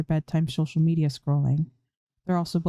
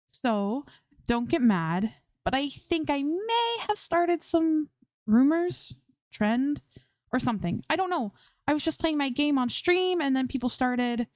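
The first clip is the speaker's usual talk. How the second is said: much higher, anxious tumbling confession; nervous rambling; 9 semitones higher than usual. A narrator's reading. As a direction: wince your way through the bad news.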